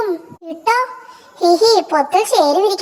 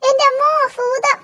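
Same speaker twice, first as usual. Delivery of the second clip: frightened cry; 6 semitones higher than usual. Acted. Thing on head cries out.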